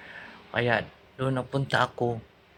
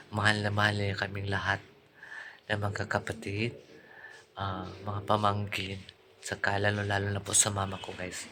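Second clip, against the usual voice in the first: softer, lower, choking up; tearful; 3 semitones lower, 6 dB quieter than usual. Real, not acted. Vlogger remembers her loving sister-in-law, tearful. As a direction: voice sinking with grief.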